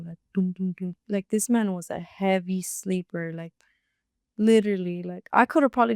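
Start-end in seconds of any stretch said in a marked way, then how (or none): 0.3-1.0 three spoken knock noises; imitated knocking. Storyteller showing how she knocked on the window, imitated knocks. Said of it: "knocking on the window".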